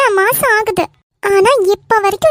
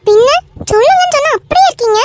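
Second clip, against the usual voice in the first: angry outburst; 3 semitones higher than usual. Acted. Wife scolds her silent husband who won't answer, angry raised voice. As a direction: let the frustration burst out at him.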